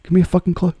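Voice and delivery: normal talking voice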